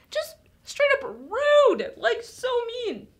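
mock whine. To the kids, outraged at the cruel servant, in mock crying. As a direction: whimper over how mean he was.

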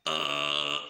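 deep growled uh; low guttural grunt. Shown as a demonstration. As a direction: drop into a low throat grunt. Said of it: "You combine that".

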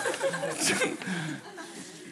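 high unvoiced laugh bursting out; breathy laugh. Real, not acted. Speaker cracking up telling the audience, high laugh. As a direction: laugh helplessly at yourself.

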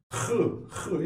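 Hı, hı with a rasping kh scraped from the throat; raspy throat kh. Shown as a demonstration. Teacher letting students hear the raspy kh sound. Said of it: "Hırıltılı olacak bu".

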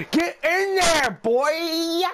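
high loud cheer; excited cheer. Real, not acted. Gamer cheering Curry's shot to drop, excited cheer. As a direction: urge the ball in.

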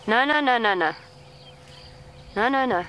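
firm no. Real, not acted. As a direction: stop him with firm repeated no's. Elephant comes at vehicle.

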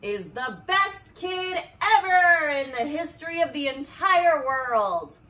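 loud, giggling read; can barely read for laughing; laughing through words. Real, not acted. Mom reading to Harper, laughing through the compliment.

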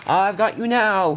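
slow, loud, high taunt; triumphant storybook baddie; gloating villain. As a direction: draw out the threat with relish. Villain Diesel catches up.

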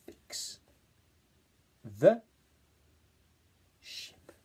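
fix and ship whispered; whispered read-back. Shown as a demonstration. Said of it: "let's read it back".

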